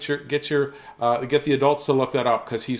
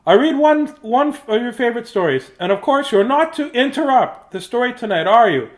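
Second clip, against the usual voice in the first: higher, lightly voiced father; papa voice; 9 semitones higher, 5 dB louder than usual. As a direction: gently warn the chick. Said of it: "said Papa".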